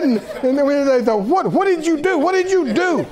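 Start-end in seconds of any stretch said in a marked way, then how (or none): 1.2-3.1 higher, mock-indignant demand; incredulous retold protest, pitched up; imitating indignant passengers. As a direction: act out put-out, disbelieving onlookers. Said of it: "people were sweating and mad".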